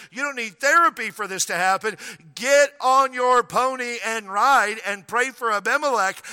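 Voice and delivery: loud, high, forceful preaching as God; God's voice. Retold or imitated. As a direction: roar God's command to Abraham. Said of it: "here's how it said".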